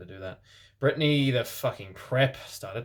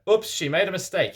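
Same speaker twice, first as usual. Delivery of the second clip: high correcting voice; 8 semitones higher, 5 dB louder than usual. Acted. Dumbledore correcting Umbridge.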